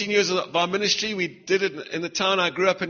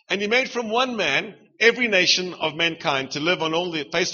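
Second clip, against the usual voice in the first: scripture reading. Acted. Reads scripture aloud.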